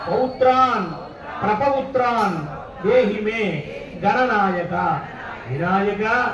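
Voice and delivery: short phrases with pauses for repetition; feed the prayer to worshippers bit by bit; measured Sanskrit call for the congregation to echo; led prayer recitation. Real, not acted.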